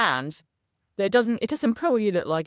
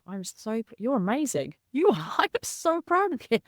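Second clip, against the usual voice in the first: self-praise; 5 semitones higher than usual. Shown as a demonstration. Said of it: "I just say it like".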